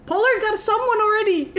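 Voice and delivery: high, loud laughing shout; excited laughing shout. Real, not acted. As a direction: burst out laughing with joy.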